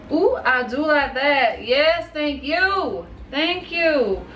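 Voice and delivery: delighted. Real, not acted. Glitter finally shows colour.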